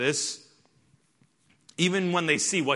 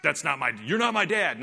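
derogatory retort. Retold or imitated. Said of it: "a derogatory".

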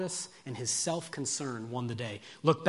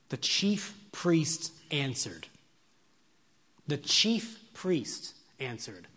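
slow, weighty reading; slower than usual. Acted. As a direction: let every word land with a pause.

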